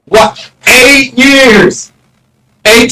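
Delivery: can't believe the number; mock disbelief. Real, not acted. Streamer marvels at being blocked, incredulous.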